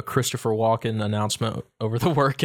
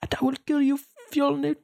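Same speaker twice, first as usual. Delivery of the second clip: husky, whispered Norse vow, broken by pauses; Norse accent. Acted. Quoting the Northman's vow to a co-host, husky Norse accent. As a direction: finish the vow like a Norse avenger. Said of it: "the, the Norse accent's kind of hard".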